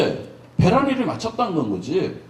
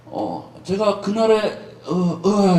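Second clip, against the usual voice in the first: a woman embarrassed to explain; hesitant woman; 2 semitones lower, much slower than usual. Acted. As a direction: stall and stumble for words. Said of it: "그러니까 여자가".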